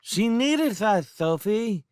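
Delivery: high, slow lisping plea; earnest little boy. A narrator's reading. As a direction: plead earnestly in a lisping child voice. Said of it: "Twinkle said earnestly".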